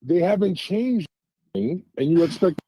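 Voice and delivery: breaking up, cutting in and out; bad connection dropouts; choppy phone line. Real, not acted. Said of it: "it's kinda choppy".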